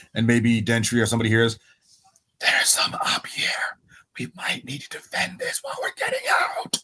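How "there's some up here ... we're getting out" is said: whispered, carrying stage whisper. Amid yelling, a player's character warns whoever is around, stage whisper. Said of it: "a stage whisper over to like whoever".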